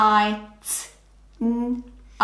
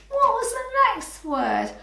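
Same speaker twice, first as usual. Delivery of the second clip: teacher prompt; 12 semitones higher than usual. Shown as a demonstration.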